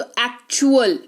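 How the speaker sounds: एक्चुअल with च in the middle; ch sound for T. Shown as a demonstration. Teacher summing up T beside U, एक्चुअल with a ch sound. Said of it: "ऐसे उच्चारण हो रहा है".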